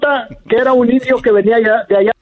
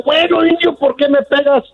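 madam's indignant voice; 5 semitones higher than usual. Acted.

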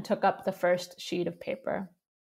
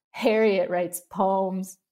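mocking laugh; 3 dB louder, much slower than usual. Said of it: "doubling up with laughter".

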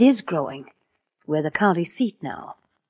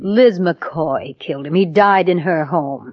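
forceful denial; 6 dB louder, slower than usual. Acted. Accused, firmly denying murder.

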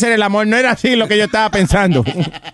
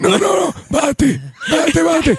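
high-pitched comic protest; mock desperate plea; 10 semitones higher than usual. Host as a squashed girl pleading with Speedy, mock desperate. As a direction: beg him off, voice pitched way up. Host plays girl crushed under heavy man.

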